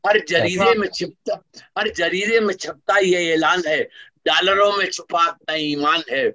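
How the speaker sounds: measured, rhythmic poetry recital; stately nazm recitation. Acted. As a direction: declaim each line to the audience. Resumes nazm after anecdote.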